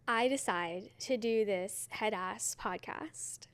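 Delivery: hushed, breathy self-mocking whisper; whispered aside. Real, not acted. Host mocking her own podcast, in a whisper. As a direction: let it slip out like a secret.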